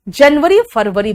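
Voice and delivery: जनवरी फरवरी said the Hindi way, short vowels; Hindi-style mispronunciation. Retold or imitated. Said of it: "बहुत गंदा लगता है यार".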